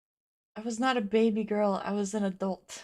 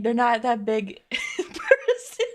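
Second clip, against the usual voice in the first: laughing; 6 dB louder, slower than usual. Real, not acted. Repeats it, laughing this time.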